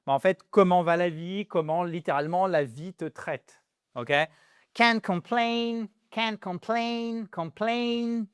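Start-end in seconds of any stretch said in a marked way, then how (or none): 4.7-8.3 'complain' with a high, drawn-out 'plain'; slow model, lean on the end of 'complain'; stress on second syllable. Shown as a demonstration. Teacher modelling English word stress for students, slow second-syllable stress. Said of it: "The stress is on the second syllable".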